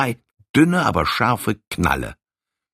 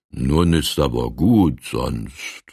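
threatening; 6 semitones lower, slower than usual. Acted. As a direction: lower and slow, a calm warning. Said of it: "rief der Goliath drohend".

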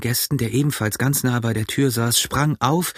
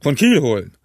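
incredulous echo; 3 semitones higher, 3 dB louder than usual. A narrator's reading. Innkeeper echoes Morgan's answer, scornfully incredulous. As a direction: throw the words back at him.

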